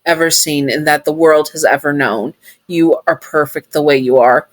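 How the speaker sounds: tender promise. Acted. Sun promising comfort.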